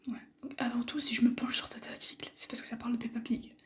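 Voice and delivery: steady morning whisper. Real, not acted. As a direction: keep whispering the commentary. Held whisper.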